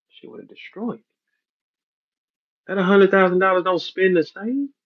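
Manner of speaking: normal talking voice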